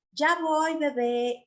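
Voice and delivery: calm mother's voice. Shown as a demonstration. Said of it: "con una voz calmada".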